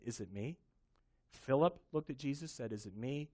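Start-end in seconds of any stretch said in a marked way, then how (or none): 0.0-0.6 quiet question. Pretend. Disciple quietly asks. 2.7-3.3 quiet question. Pretend. Disciple quietly asks.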